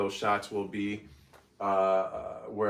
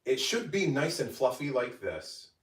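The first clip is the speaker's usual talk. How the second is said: higher, louder cheerful voiceover presentation; voiceover read; 7 semitones higher, 5 dB louder than usual. Acted. Creator showing off her baked agga, bright voiceover. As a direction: present the finished dish like a cooking-show host.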